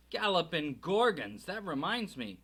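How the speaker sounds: loud, booming giant exclaiming; Hagrid exclaiming. Acted. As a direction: blurt it out like a big giant. Hagrid exclaims, clapping forehead.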